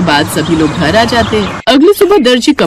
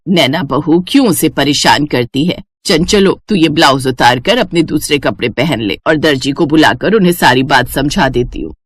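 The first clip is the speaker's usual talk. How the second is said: a hint of an older mother, a bit lower; lightly lower, motherly instructing; lightly voiced mother; 6 semitones lower than usual. Mother telling daughter to pack, lightly lower and motherly.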